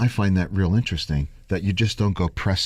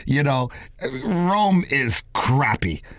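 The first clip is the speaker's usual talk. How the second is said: put-on raised, scornful Italian Jewish accent; 5 semitones higher than usual. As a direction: sneer it like a snobby Italian Jewish stylist. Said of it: "He said it with an Italian Jewish accent".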